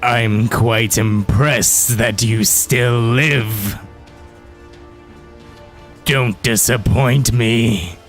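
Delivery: slow, low echoing villain voice; menacing voice echoing down a hallway; unearthly voice. Acted. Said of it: "you hear an echoing voice".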